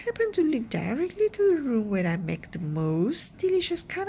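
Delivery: chatty, pleased with his fudge; lightly voiced Wonka explaining. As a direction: Wonka cheerfully explaining where the pipe leads.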